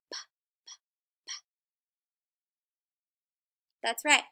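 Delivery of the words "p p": two crisp puffed p sounds; slow demo of p. Shown as a demonstration. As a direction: press lips and pop them open. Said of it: "what is my mouth doing when I say p".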